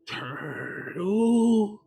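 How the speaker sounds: slow, stretched-out puzzled guess; clueless, halting questioning; groping for a word. Acted. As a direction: draw it out as if testing each word. Paladin gropes for a name.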